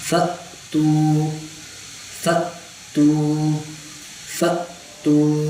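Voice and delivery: ف تو with a sharp catch, not فا تو; hamza drill. Shown as a demonstration. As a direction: jolt the hamza in ف تو. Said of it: "اس میں".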